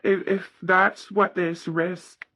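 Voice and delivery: burping while talking; words pushed out through a burp. Real, not acted. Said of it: "excuse me, I'm burping now".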